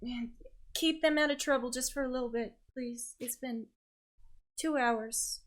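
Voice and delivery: from mild exasperation down to weary pleading; mildly annoyed mother. Acted. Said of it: "mildly annoyed by her children".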